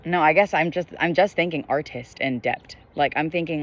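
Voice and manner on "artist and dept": "artist and dept" with crisp, clearly released Ts; hard T ending "dept" in place of th; articulated T. Shown as a demonstration. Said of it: "articulates the T in sentences".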